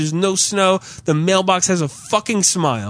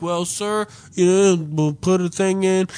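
mock postal clerk; 3 semitones higher than usual. Clerk placating an irritated customer, mock-official. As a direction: imitate an official fobbing someone off.

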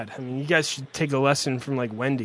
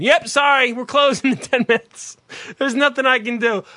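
mocking bored clerk; 6 semitones higher than usual. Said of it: "you just tell 'em whatever".

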